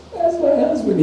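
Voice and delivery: high, loud mock sobbing wail; imitated crying. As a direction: wail it like a woman in tears, hammed-up. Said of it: "And she's crying".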